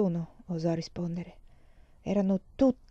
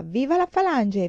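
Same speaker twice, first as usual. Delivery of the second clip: raised, louder delirious cry; 5 semitones higher, 4 dB louder than usual. A narrator's reading. Feverish girl crying out her slogan, a raised cry. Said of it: "sempre gridava".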